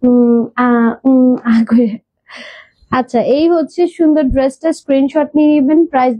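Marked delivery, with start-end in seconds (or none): 0.1-1.9 imitating hesitation. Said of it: "আমি কি বেশি আমতা আমতা করে কথা বলতেছি?".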